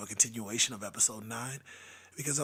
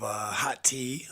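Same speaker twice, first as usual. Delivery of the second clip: hoarse whisper; 3 dB louder, slower than usual. Real, not acted. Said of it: "this is what I sound like now".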